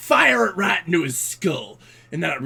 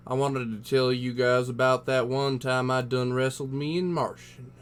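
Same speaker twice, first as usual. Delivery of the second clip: lightly voiced cowboy spinning a yarn; 3 semitones lower, 5 dB quieter than usual. Space cowboy telling guys a tall tale, folksy cowboy voice. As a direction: tell it like a folksy cowboy by the fire.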